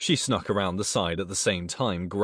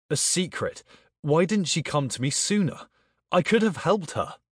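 rising to a shout; raised voice; 8 semitones higher than usual. Acted. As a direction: voice climbing high and loud. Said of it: "don't shout too loudly".

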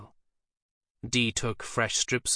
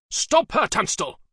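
much higher, breathless urgent cry; gasped alarm; 11 semitones higher, 6 dB louder than usual. A narrator's reading. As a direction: gasp out a warning in panic. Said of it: "Dee gasped out".

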